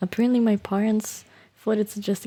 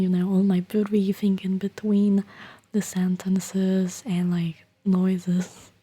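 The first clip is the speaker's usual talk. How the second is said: slow, breathy ASMR whisper; whispering to stream viewers; slower than usual. Acted. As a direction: hush it close to the mic.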